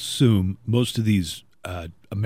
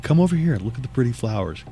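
luring quote; faster than usual. Retold or imitated. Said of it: "'Cause it was like".

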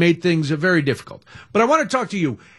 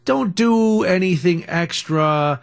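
quoting people; much slower than usual. Retold or imitated. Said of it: "where people say".

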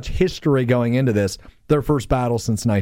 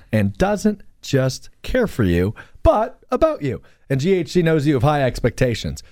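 measured, polished radio ad delivery; sponsor ad read; 2 semitones higher than usual. Real, not acted. Host reading health cooperative sponsor copy, measured ad read.

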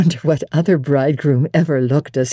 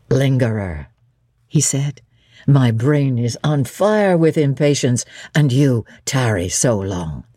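lower, eager bridegroom; lightly voiced impatient Rochester; 4 semitones lower than usual. Rochester scolding his late bride, lower and impatient. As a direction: chide her fondly, low.

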